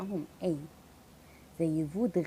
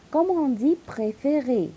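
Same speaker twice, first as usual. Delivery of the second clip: whispered préféré, slow; 4 semitones higher, 3 dB louder than usual. Shown as a demonstration. Teacher whispering the example préféré to the class. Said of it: "donne-moi le son fermé".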